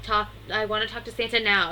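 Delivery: lightly imitated demanding yell; mild mock yell. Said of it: "screams at him".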